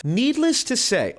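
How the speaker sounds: high, slow mock-British voice; British accent. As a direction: put on a plummy British quote voice. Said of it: "I'll do it in a British accent".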